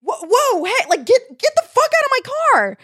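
high, loud shout building in pace; alarmed yelling. Retold or imitated. Car owner at the woman sitting inside, yelling. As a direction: yell to drive off an intruder. Retold confrontation with stranger in car.

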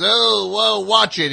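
high and loud, startled and indignant; a loud, high-pitched mock warning; mock cop yell. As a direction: yell it like an offended tough guy. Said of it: "He goes".

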